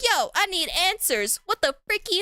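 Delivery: mock outrage, pitched high; acted indignant demand. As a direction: demand answers, playing it up. Character demands answers from villain.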